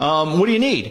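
plain

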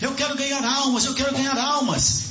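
high, desperate mock scream.

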